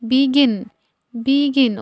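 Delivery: "বিগিন" said with an "i" in the first syllable, bi-gin; "বিগিন" repeated as a teaching word, first vowel "i"; E as short "i". Shown as a demonstration. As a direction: model "বিগিন" clearly as bi-gin. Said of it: "রস্যইকার হিসেবে যখন উচ্চারিত হয়".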